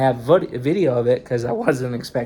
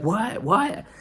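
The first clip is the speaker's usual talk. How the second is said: confused waking what; 8 semitones higher than usual. Retold or imitated. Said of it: "she's like".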